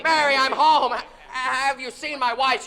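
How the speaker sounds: breathless happy laughter through the words; laughing with joy. Acted. Man bursts in laughing, calling for his wife. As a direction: laugh as you call through the house. Joyful return home.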